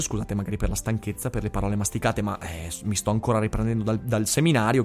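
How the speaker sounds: tired, worn-out voice, soft and low; voice giving out. Real, not acted. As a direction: talk through a tired, failing voice. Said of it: "scusate per la voce". (voce stanca e affaticata)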